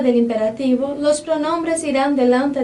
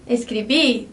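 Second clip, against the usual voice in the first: "escrever" with a strong last syllable; final-syllable stress; 3 semitones lower than usual. Shown as a demonstration. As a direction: put the weight on the end of "escrever". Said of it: "essa última sílaba acaba ficando mais forte".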